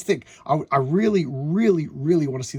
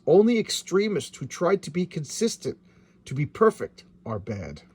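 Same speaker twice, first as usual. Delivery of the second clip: villain voice; 3 semitones higher, 4 dB louder than usual. Acted. Reading comic villain dialogue aloud.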